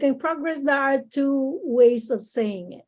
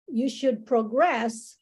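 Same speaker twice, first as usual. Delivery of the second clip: proGRESS, slowly, as a verb stressed at the end; stress on second syllable; slower than usual. Shown as a demonstration. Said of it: "so that's a verb".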